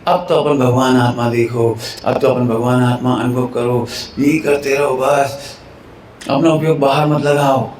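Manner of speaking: low, measured exhortation; preaching style. Shown as a demonstration. Preacher telling listeners to look at the soul, exhorting style. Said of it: "अब ये उपदेश शैली है".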